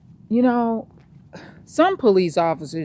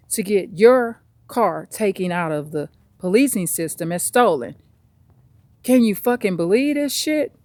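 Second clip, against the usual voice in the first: exasperated rant, voice rising on stupid; upset officer ranting. Retold or imitated. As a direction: vent it like a fed-up cop. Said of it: "the police officer's so upset ... they say this".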